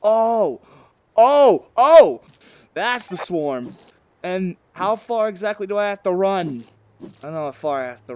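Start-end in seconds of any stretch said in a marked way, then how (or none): 0.0-2.2 loud, high "oh" exclamations; repeated yelps of shock; startled cries. Real, not acted. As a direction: cry out in rising alarm, louder each time. Startled as the swarm arrives.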